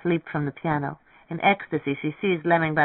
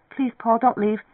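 higher, urgent plea; pleading; 7 semitones higher than usual. A narrator's reading. Marianne begs Paul not to leave, pleading. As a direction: beg him in a higher voice.

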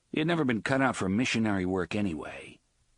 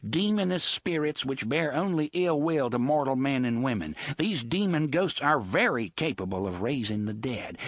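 polite contempt; 3 semitones higher than usual. Acted. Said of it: "patina of good manners ... contempt".

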